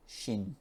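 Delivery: "shin" short with one vowel; correct "shin". Shown as a demonstration. Teacher drilling the ending sound. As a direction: hold "shin" a little. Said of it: "this sound here is shin".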